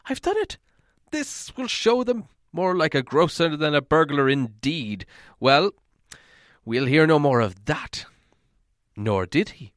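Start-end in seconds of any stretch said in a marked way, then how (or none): 0.1-8.1 high, gleeful burst of triumph; triumphant. A narrator's reading. Bilbo gloating to himself, high and excited. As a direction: crow over the stolen cup.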